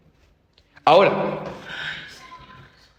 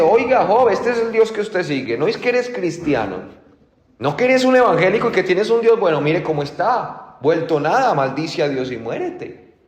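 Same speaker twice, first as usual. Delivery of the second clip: scolding wife; 5 semitones higher than usual. Retold or imitated. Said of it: "Aún la esposa le dice".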